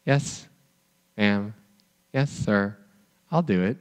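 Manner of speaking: a hint of a kid dragging their feet; reluctant kid. Kid grudgingly answering a parent, mildly sulky.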